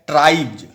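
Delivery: ट्राइब्स with a buzzing voiced ending, like ट्राइब्ज; final s as j. Shown as a demonstration. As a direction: end ट्राइब्स on a voiced j sound, "tribe-j". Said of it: "एस का उच्चारण क्या होगा?".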